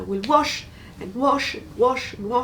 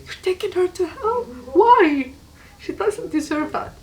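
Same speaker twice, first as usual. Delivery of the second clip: higher, louder pleading outburst at God; inner scream retold; 5 semitones higher, 4 dB louder than usual. Telling of screaming inside at God, raised voice. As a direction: cry out to God in alarm. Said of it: "I start screaming inside".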